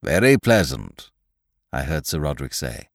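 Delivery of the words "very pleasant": put-on pompous old gentleman. Sir Roderick speaks.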